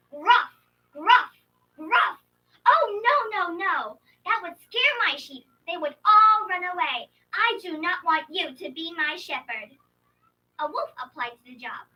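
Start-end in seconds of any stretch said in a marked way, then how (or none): 0.1-2.2 much louder, barking gruff bear call. Acted. Bear calling the sheep, loud gruff bellow. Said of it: "I would call them like this". 2.7-9.8 put-on startled old woman. Old woman rejects bear.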